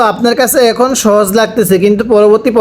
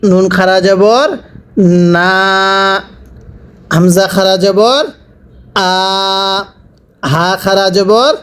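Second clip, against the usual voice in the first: measured chant on a level note, rising at each phrase end; sing-song recitation with drawn-out syllables; Quran spelling drill; slower than usual. Shown as a demonstration. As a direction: lead the class, then hold the syllable long.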